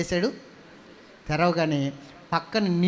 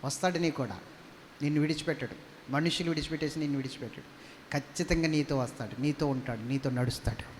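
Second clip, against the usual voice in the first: soft, lower reassurance; tender reassurance; 6 semitones lower, 10 dB quieter than usual. Real, not acted. Preacher softly reassures congregation God walks with them. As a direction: comfort each listener gently. Gentle reassurance after shout.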